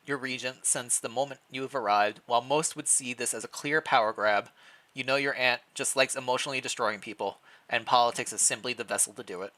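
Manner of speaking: measured storybook narration; story narration. Acted. Player narrating the king's walk through the castle, storytelling. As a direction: read the scene like a novel, drawing them in.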